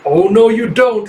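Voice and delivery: drawn-out mock menace; playful mock threat.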